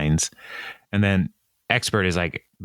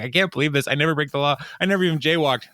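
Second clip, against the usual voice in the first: higher-pitched, mock-panicked pleading; distressed protest; 6 semitones higher, much faster than usual. Arrested man protesting to the officer, distressed. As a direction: imitate a flustered innocent man.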